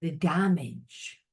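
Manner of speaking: a spirit voice, drawn out and pointed. Retold or imitated. Spirit tells the listener to see the damage, solemn. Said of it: "Spirit's saying".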